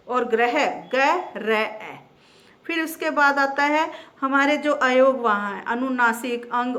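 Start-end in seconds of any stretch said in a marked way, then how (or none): 0.1-2.0 ग्रह, ग र ए, split slowly into parts; slow spelling out. Shown as a demonstration. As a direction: sound out ग्रह letter by letter, slowly. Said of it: "ग्रह और गृह है। अब इसमें भी अंतर है". (ग्रह को ग र ए करके धीरे बोलना)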